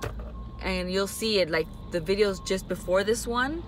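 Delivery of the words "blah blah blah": high, loud, squealing gush; bubbly gushing. Retold or imitated. Her usual upbeat self gushing on camera, squealing. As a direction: gush like an overexcited chatterbox. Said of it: "I'm the person that's like".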